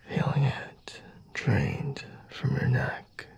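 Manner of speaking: slow hushed whisper. Acted. Vampire drinking the listener's blood.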